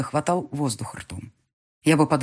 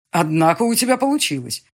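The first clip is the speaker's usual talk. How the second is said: plain reading voice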